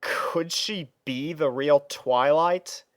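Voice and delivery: usual speaking voice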